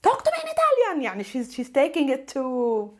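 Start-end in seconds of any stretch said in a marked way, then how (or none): 0.0-1.0 put-on high little girl voice; child voice. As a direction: imitate a small daughter pleading. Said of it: "She tells me".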